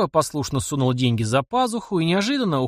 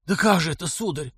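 put-on higher, mildly alarmed old servant; frightened servant; 5 semitones higher than usual. A narrator's reading. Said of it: "прошептал слуга".

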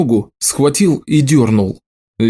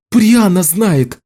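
shouted; 7 semitones higher, slower than usual. A narrator's reading. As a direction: hurl the news at him. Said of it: "крикнула Лиша".

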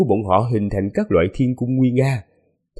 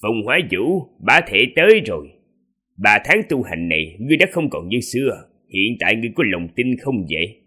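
unhurried voice. Acted. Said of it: "không nhanh không chậm".

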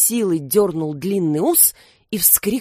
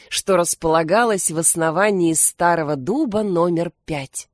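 ordinary delivery

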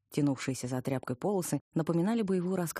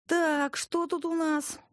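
curious; 12 semitones higher, 3 dB louder, much slower than usual. Acted. Рассматривает книгу.

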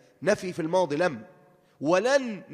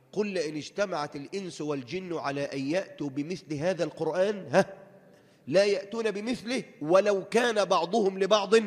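Quran recitation. Acted. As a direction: recite with solemn care.

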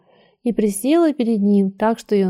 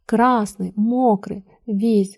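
ordinary delivery, nothing marked

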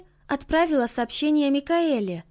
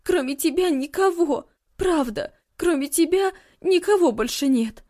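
sobbing apology; 3 semitones higher than usual. Acted. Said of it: "пробормотала Юволь".

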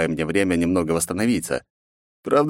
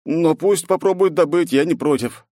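raised, amused hero; 8 semitones higher, 3 dB louder than usual. Acted. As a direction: toss it off cheekily. Hero answers the fairy.

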